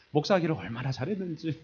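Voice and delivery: ordinary talk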